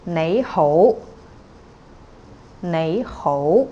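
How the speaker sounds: nei ho, both syllables rising; Cantonese rising tones. Shown as a demonstration. Teacher models nei ho for students. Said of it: "They're both rising".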